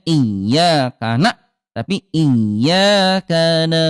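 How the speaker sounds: "iya kana" drawn out slowly; slow Quranic chant; slow recitation. Shown as a demonstration. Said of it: "jangan dihentakkan".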